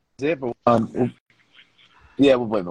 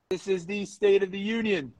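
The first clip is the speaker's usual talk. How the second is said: raised, measured podcast intro voice; deliberate host introduction; show announcer; slower than usual. Real, not acted. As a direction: announce the show and sponsors, stretching the words.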